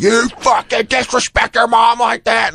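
high, slow, mock drunk rant; mock angry drunk boyfriend; drunk boyfriend scolding. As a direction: imitate a drunk stepdad yelling. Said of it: "He's like".

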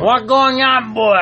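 failed go at mock Jamaican; bad Jamaican accent. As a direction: try and botch the Jamaican accent. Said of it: "Is that better?".

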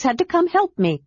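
bubbly little adventurer who can't stop talking; excited kender. Acted. Kender Tass chatters excitedly.

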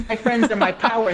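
glitchy jumping pitch, robotic audio; like a broken auto-tune robot. Real, not acted. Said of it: "you're sounding like a robot now".

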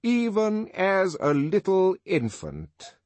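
high, loud oratorical indictment; pompous denunciation. Acted. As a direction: declaim it like a public accuser. Director's pompous public denunciation.

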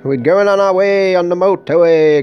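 high, loud giddy-up cries; excited mock rider. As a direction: urge your dinosaur onward, thrilled. Riding a pretend T. rex.

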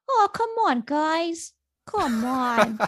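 high-pitched pleading newsboy; old-timey newspaper boy. Shown as a demonstration. Parent showing off a weird voice, high old-timey newsboy. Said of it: "old-timey newspaper boy".

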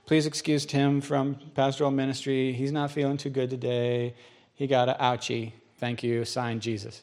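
understated sing-out of a pretend note; mock excuse note. Preacher reading a pretend school slip from Jesus, mildly mock-official.

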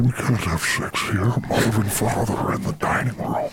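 creepy Sith whisper. Shown as a demonstration. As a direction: hush it like a creepy villain. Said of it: "sounds like Hannibal Lecter".

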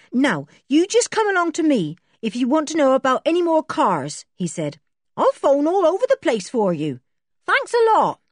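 eager to be helpful; a lightly voiced grinning boy; cheery garage boy. A narrator's reading. Garage boy cheerfully offers help.

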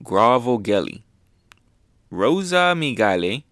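"Grovogeli" and "Rosa Migale" repeated carefully, with pauses between; careful pronunciation. Shown as a demonstration. Reviewer rehearsing a hard name, careful "Grovogeli", "Rosa Migale". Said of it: "let me try to pronounce this correctly".

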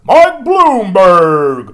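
very loud, drawn-out, high announcer yell; booming slow announcer call; mock ad announcer. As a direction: blast the name like a campaign ad. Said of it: "Then all of a sudden".

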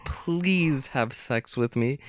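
slow, drawn-out mock plea; hammed-up pleading Bond girl; mock begging. Mocking a Bond girl pleading with Bond, slow mock begging. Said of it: "like, begging".

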